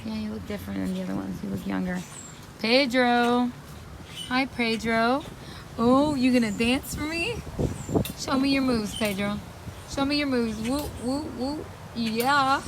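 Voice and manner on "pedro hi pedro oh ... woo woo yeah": pet talk. Real, not acted. Coaxing parrot Pedro to dance.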